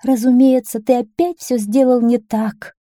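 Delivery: high, exasperated scolding; fed-up queen's reproach; reproachful wife. A narrator's reading. Queen reproaches her husband in story.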